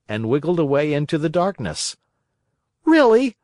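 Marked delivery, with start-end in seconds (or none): 2.8-3.3 much higher, louder cry of rage; enraged. Acted. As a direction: burst out in fury. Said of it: "cried Pinocchio, blind with rage".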